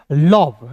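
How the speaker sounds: "लोभ" with a long o and bh, the mistake; the wrong way, "लोभ"; wrong pronunciation. Shown as a demonstration. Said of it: "लोभ नहीं". (गलत उच्चारण "लोभ")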